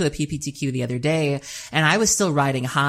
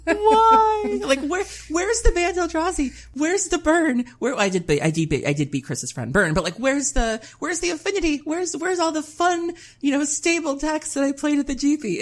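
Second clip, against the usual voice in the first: high, half-laughing wail of disbelief; a high, laughing complaint about facing only strange decks; exasperated whine; 13 semitones higher than usual. Retold or imitated. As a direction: plead at the sky for the normal decks to come back. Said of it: "I'm just like".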